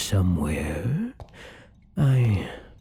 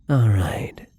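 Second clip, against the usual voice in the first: whispered to himself; a nervous little whisper of resolve; hushed self-reassurance. Acted. Steadying himself before feeding.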